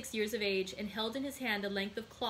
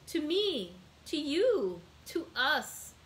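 high, louder, emphatic list; joyful insistence; 6 semitones higher, 5 dB louder, much slower than usual. A narrator's reading. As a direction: share it out exuberantly. Son joyfully shares his money.

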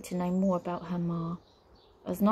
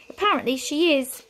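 higher, louder strained admission; tight; 7 semitones higher, 5 dB louder than usual. A narrator's reading. Wizard admits his sister is home, tight. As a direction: concede it with tense displeasure. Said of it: "said Flabbergast tightly".

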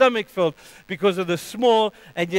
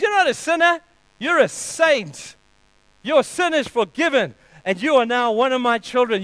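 fervent declaration; 5 semitones higher than usual. Acted. Preacher declaring God's word to the sinner, high and fervent. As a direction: lift it up like good news shouted from the pulpit.

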